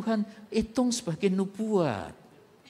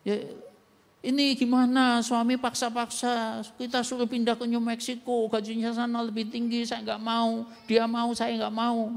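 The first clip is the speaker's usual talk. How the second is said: wife complaining; 4 semitones higher than usual. Retold or imitated. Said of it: "telepon lagi, ngomong yang sama".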